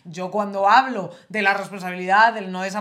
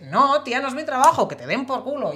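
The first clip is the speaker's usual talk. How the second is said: louder and higher, indignant refusal; fed-up outburst; 5 semitones higher, 4 dB louder than usual. Real, not acted. Telling a bad partner off, indignant and loud. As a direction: slam the door on the idea. Angry rant about partners.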